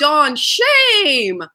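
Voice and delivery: a light imitation of a South African friend; South African shame. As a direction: tease in a mild South African accent. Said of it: "She'll say".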